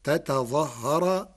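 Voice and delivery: slow تتظهر with both ta's sounded: ta-ta-ẓah-har; original word form. Shown as a demonstration. Lecturer giving the root form before assimilation, tataẓahhar. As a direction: spell out تتظهر slowly, two separate ta's before doubled ha. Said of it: "فأصله".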